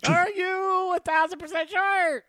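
high, loud sarcastic doubt; sarcastic disbelief. Acted. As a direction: needle him with mock doubt. Mock doubting co-host's claim.

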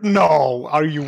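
real disbelief, voice jumping up; incredulous objection. Real, not acted. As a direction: object loudly, as if you can't believe your friend. Disbelief at friend's film opinion.

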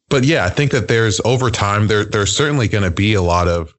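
glitchy digital distortion on the voice; like a bad, metallic call connection; robotic voice. Real, not acted. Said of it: "Yo, you sound really robotic".

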